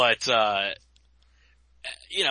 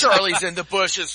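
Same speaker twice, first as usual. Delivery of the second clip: higher, loud shouted warning; war movie shout; 6 semitones higher, 10 dB louder than usual. Pretend. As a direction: yell it like a panicked soldier. Hammed-up war movie quote.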